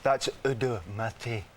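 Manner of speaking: slow, put-on French accent. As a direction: purr it like a French perfume ad. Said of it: "And in such a beautiful French accent".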